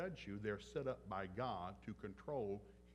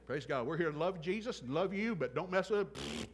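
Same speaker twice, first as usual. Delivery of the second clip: louder, higher, slowing on don't mess with it; stern warning; 4 semitones higher, 7 dB louder than usual. Real, not acted. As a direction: warn them half joking but firm. Warning with armed guards.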